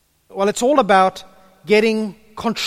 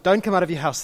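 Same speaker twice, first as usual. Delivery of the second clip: gentle calm tone; faster than usual. Retold or imitated. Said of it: "she would have said it in a gentle, lovely, calm tones".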